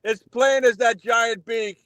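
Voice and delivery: mocking. Mocking Tiffany's nose.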